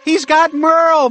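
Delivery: high, loud alarmed shout; high squirrel character yelling. A narrator's reading. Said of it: "Pearl shouted".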